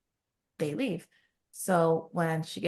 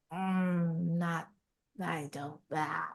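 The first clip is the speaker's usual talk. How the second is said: halting reluctant mumble, trailing away softer; awkward evasion; 5 dB quieter, much slower than usual. Retold or imitated. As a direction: act out someone dodging a question. Retold awkward, evasive answer to question.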